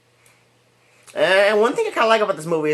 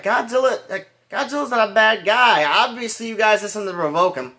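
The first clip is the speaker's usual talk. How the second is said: put-on higher-pitched quote of a protesting girl; imitating insistent girl; 7 semitones higher than usual. Girl defending Godzilla to the adults, higher-pitched imitation. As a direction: plead the monster's case in a raised voice. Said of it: "she was just like".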